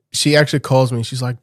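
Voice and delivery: ordinary delivery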